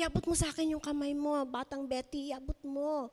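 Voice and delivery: fast, urgent lifeguard reaching out; lightly voiced lifeguard urging her. Lifeguard reaching for Batang Betty, light urgent voice. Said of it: "Sabi niya".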